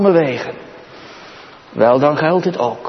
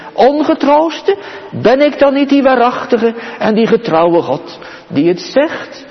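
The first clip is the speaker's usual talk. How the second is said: higher, rising preaching voice of God; voicing the Lord; 6 semitones higher than usual. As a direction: proclaim as the faithful God himself. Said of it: "Dan zegt de Heer het".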